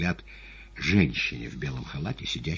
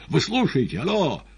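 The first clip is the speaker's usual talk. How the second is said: high, raised-voice hello; shouting into phone; 11 semitones higher, 5 dB louder than usual. A narrator's reading. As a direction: call out impatiently down the line. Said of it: "опять закричал в трубку".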